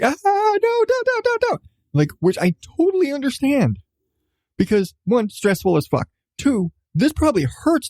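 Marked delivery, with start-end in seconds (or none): 0.0-1.6 put-on high, whiny child's plea; panicked kid pleading. Mom imitating her son begging her to stop. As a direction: squeal it like a scared little boy.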